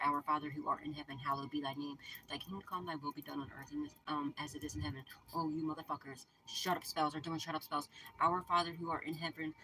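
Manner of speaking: prayer recitation. Acted.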